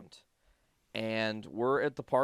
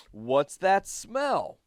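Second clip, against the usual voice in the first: imitated cop, louder and higher; cop playing it up; 6 semitones higher, 5 dB louder than usual. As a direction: put on a show as a suspicious cop. Acting out cop's traffic stop.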